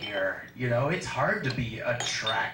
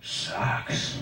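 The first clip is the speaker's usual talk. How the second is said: homeless bark; 6 semitones lower, much slower than usual. Retold or imitated. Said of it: "homeless people kinda bark at ya".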